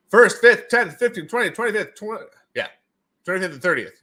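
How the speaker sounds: high robotic Siri voice. Retold or imitated. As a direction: count like a robotic assistant. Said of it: "a guy who talks like this".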